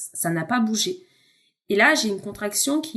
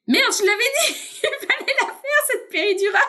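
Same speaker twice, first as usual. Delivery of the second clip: much higher, exasperated inner outburst; coup de gueule; 13 semitones higher than usual. Retold or imitated. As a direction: blurt it out in frustration. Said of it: "excuse-moi du terme, je vais être violente". (juron intérieur, exaspéré et aigu)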